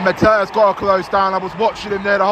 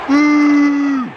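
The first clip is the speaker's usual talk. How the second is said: loud high boo; 6 semitones higher, 6 dB louder than usual. Real, not acted. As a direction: boo the ref with full force. Booing the referee.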